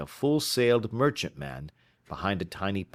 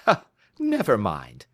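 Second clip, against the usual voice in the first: light laugh; 5 dB louder than usual. Acted. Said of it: "said Holmes, laughing".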